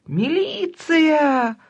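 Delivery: high, panicked, slow shriek. Acted. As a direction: panic at the neighbours. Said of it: "доносился снизу панический голос". (панический крик)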